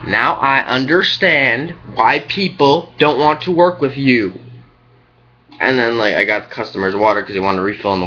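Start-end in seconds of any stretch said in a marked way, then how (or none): 0.1-4.3 Now I understand why people don't want to work with you, said slowly, every word spelled out; slow deliberate repeat. Retold or imitated. Repeating the jab after the coworker says what, slow and deliberate. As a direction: repeat it slowly so he can't miss it.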